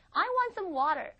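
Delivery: want punched high and loud; stress on want. Shown as a demonstration. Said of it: "I would like some water". (want를 높고 크게 강조)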